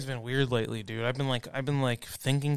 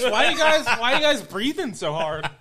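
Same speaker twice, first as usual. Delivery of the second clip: high, loud cocky taunt; smug finisher; 9 semitones higher, 5 dB louder than usual. Pretend. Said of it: "I'm gonna be like this".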